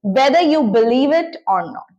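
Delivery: very slow, each word set apart for learners; slow model sentence. Shown as a demonstration. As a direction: spell it out slowly like a teacher giving the example. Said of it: "तो मैं कहूंगी". (धीमे-धीमे, साफ़ बोलकर उदाहरण वाक्य)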